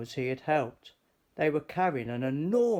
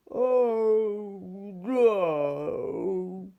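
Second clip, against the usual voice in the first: a higher, louder cry of dismay; dismayed giant; 6 semitones higher, 4 dB louder than usual. A narrator's reading. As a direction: George finds the shop shut. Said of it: "cried George".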